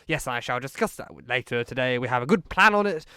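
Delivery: a hint of blustering Boris turning on the opposition; Boris impression. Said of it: "brings it back to what he wants to say".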